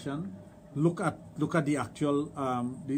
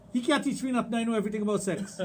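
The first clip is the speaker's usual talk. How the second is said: higher, quick retold boast; mock know-it-all; 6 semitones higher, faster than usual. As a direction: imitate a cocky challenger, lightly. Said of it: "the first thing they'll say".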